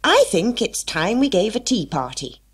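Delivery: a light, eager hatter voice; lightly voiced Mad Hatter. Hatter proposes tea party.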